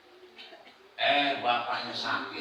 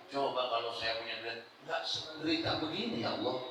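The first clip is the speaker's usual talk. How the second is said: soft whiny lament to God; quietly moaning about being broke; mock complaining; 4 dB quieter than usual. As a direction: sigh it out like a self-pitying man. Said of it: "Ngeluh dia".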